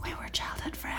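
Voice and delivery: breathy, hushed whisper; mock whisper. Heroine speaking to her friend Meg, in a mock whisper. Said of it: "she's whispering".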